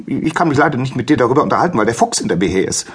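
high, rushed little hare voice; hurried hare. Acted. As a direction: blurt it out on the run. Hare fleeing the fox.

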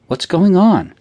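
high, loud anxious question; alarmed mother. A narrator's reading. Mother pressing her hysterical daughter, alarmed and loud. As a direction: demand an answer in alarm. Mother worried about crying child.

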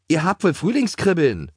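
high, indignant exclamation; scolding. A narrator's reading. Greta scolds the ponies, indignant. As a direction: tell off naughty ponies. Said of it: "schimpfte Greta".

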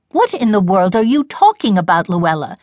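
mother's sharp, impatient question. Acted. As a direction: snap out a lightly impatient demand. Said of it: "said her mother impatiently".

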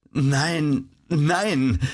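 high, drawn-out despairing denial; despairing mother's cry; desperate. A narrator's reading. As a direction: cry it out in desperation, without shouting. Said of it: "rief die Frau verzweifelt".

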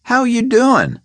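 high, pointed repeat of the question, leaning on doing; a thug who won't ask a third time; menacing repeat. A narrator's reading. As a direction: ask again as a warning. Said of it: "he repeated".

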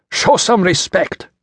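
high, drawn-out angry command; roared reprimand. A narrator's reading. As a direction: roar it at an insolent prisoner. Soldier roars while striking prisoner.

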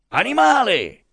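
high, loud insult; angry yell. A narrator's reading. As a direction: hurl the insult at him. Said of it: "urlò Pasotti".

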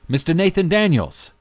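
high, loud call across the crowd; calling loudly. Acted. Driver calling out to the new arrival, loud and high. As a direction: hail him from far across the platform. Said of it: "the man called loudly".

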